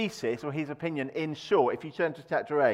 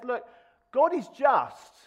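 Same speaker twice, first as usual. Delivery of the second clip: stern Bildad; 10 semitones higher, 7 dB louder, slower than usual. Retold or imitated. Bildad lecturing Job.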